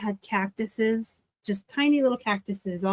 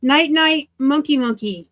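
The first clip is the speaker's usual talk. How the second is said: singsong; 5 semitones higher, 4 dB louder than usual. Pretend. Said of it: "Is that fun to say?".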